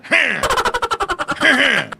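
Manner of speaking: staged martial-arts master laugh; kung-fu movie laugh. Acted. Boyfriend greeting her father, mock movie laugh. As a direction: laugh like a dubbed kung-fu film.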